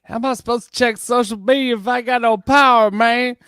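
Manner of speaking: a real exasperated rant at the alert; exasperated outburst. Real, not acted. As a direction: throw it up in the air, can't believe this advice. Mocking the emergency alert advice.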